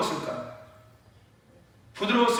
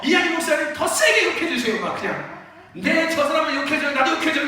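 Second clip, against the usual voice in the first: eager begging; 6 semitones higher, 4 dB louder than usual. Retold or imitated. Congregants beg to be scolded.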